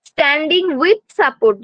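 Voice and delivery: each word drawn out slowly for notes; slow, deliberate classroom dictation. Shown as a demonstration. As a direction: spell it out slowly so students can write. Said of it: "teacher dictating a milestone".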